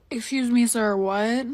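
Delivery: put-on taken-aback questioning, rising at the end; exaggerated polite double take; mock disbelief. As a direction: play up being taken aback. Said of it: "But not for real, I was tight".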